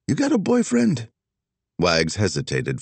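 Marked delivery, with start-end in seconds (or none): 0.1-1.1 playful flirty question, much higher; hammed-up flirt; teasing. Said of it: "he teased".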